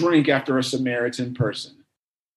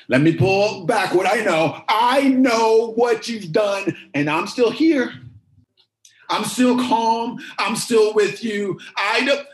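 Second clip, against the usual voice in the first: building fervour; 3 semitones higher than usual. Acted. Preacher voicing Jesus to the woman, fervent build. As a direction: let it rise with conviction.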